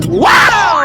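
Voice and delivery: high whoop of delight; refreshed shout. Acted. After a cold drink, he whoops. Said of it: "Kailangan dito talaga sisigaw?".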